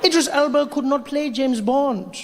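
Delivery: well-actually like a smug troll; hammed-up pedant voice; mock know-it-all commenter. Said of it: "the comment section was like".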